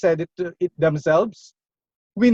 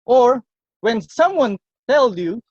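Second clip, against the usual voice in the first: ordinary talk, nothing marked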